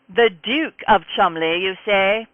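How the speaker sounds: a haughty English butler querying the title; British accent. Acted. Butler questions Rafe's title in a British accent. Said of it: "in an unmistakably British accent".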